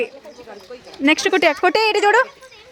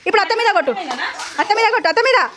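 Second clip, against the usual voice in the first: laughing; 3 semitones higher, faster than usual. Real, not acted. Playful urging during balloon game.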